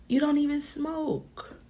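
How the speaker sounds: slow whispered repeat; whispered aside. Retold or imitated. Repeating to the friend, slow whisper.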